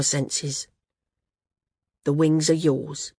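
lightly voiced injured flyer conceding; halting start, then earnest and resigned; gruff, frank Garth.

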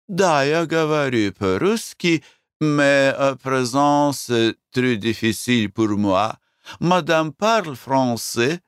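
put-on slow, high Russian with a French accent. Owner struggling in Russian with a heavy French accent. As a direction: stumble through Russian like a Frenchwoman, slowly.

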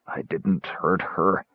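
slow, soft, dazed mumble; mumbling. A narrator's reading. Caramon plodding blindly in shame, mumbling. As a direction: mumble it slowly to yourself. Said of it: "Tass heard him mumble".

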